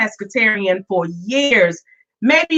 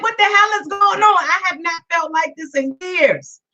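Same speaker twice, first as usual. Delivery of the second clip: retold alarm; 5 semitones higher than usual. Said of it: "I'm like".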